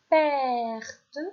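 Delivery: "mallette" projected clearly; teacher calling out "mallette"; loud dictation. Shown as a demonstration. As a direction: dictate "mallette" with a falling tune. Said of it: "Je répète".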